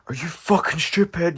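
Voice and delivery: slow, high-pitched mock outburst; retold telling-off. Dad scolds his kid over the fire, mock outrage. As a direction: imitate dad's scolding, drawing out each word. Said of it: "shouting at me and telling me off".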